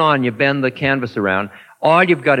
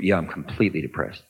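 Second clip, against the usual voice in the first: low, heavy, glum reply; mopey depressed answer; 10 semitones lower, 6 dB quieter, faster than usual. Retold or imitated. Teacher voicing a depressed student answering him, low and glum. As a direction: sink into the word depressed, lower. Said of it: "You say".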